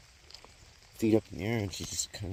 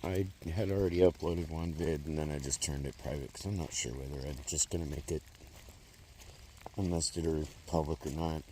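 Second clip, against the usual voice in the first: muffled; 3 semitones lower than usual. Real, not acted. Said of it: "sorry if I'm kinda muffled a little bit".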